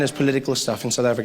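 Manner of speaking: ordinary talk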